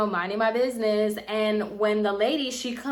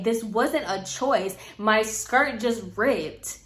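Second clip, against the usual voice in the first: annoyed. Retold or imitated. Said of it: "I was so annoyed".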